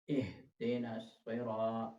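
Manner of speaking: इहदिनस slow, ह from the chest. Shown as a demonstration. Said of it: "इह पे जो है वो हा है". (सीने से ह)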